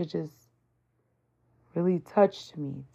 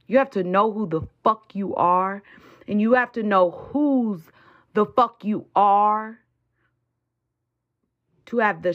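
preaching. Acted. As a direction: preach it with full force. Preaches at full force.

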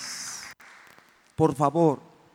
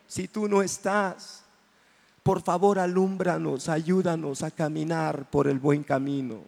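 tender prayer; 6 semitones higher than usual. Acted. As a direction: speak tenderly to God. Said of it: "qué hermoso decirle".

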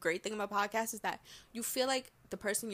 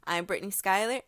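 upbeat podcast host intro read; show intro announcer; 8 dB louder than usual. Shown as a demonstration. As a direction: announce your name over the intro music. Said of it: "so as you heard".

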